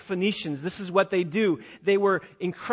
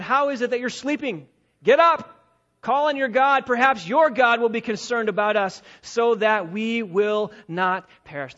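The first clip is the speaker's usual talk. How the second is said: louder, urgent call to wake up; captain's urgent rousing; 3 semitones higher, 4 dB louder than usual. Acted. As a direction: bark it like a captain waking a sleeper. Pagan captain rousing Jonah.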